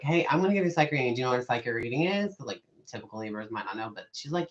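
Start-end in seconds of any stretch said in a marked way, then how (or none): 0.0-2.4 fast, eager sales-style offer; quick, eager psychic pitch. Retold or imitated. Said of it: "I'm like".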